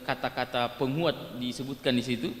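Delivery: ordinary talk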